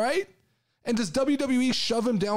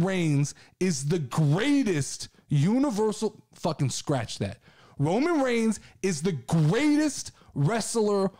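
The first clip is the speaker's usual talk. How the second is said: wrestling promo. Pretend. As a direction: hype Roman Reigns like a heel mouthpiece. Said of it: "I'm gonna cut this promo".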